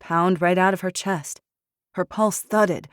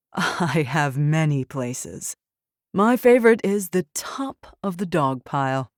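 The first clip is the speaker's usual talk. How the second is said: smug taunting. Acted. Poe taunting the general.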